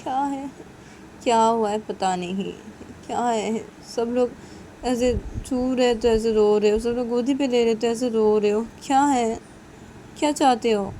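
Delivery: put-on high, loud, coaxing a crying baby; fussing mother's voice, baffled; pleading young mother.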